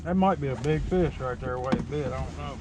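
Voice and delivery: talking around a mouthful of egg; mouth full. Real, not acted. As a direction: mouth full, words a bit muffled. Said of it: "I got my hard-boiled egg in my mouth".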